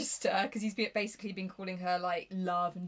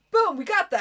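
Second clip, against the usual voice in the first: loud triumphant cheer, higher; 8 semitones higher, 11 dB louder than usual. Real, not acted. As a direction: celebrate finally getting it out. Triumphant after struggling with sentence.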